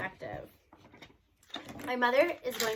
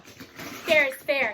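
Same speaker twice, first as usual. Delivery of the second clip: brave; 2 semitones higher, 7 dB louder, much slower than usual. Acted. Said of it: "he says bravely".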